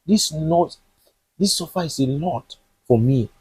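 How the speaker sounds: a touch of tearful begging, voice rising on please; mild pleading prayer. Acted. Jonathan begging God to change his story, mildly tearful. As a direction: plead upward, lightly voiced, never truly sobbing. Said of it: "was crying and begging God".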